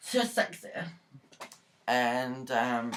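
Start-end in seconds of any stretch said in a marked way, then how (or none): 0.0-0.7 high, giggly self-mocking echo; laughing. Real, not acted. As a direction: squeak it out through a laugh. Laughs at own boast.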